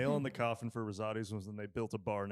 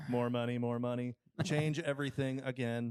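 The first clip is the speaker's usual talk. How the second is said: lightly voiced robot boss; deadpan robot, barely put on. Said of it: "but in a robot voice".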